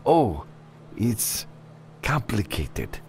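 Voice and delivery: high, halting client voice; hesitate, high and uneasy; nervous, reluctant client. Acted. Client pressed by the freelancer to explain, high and halting.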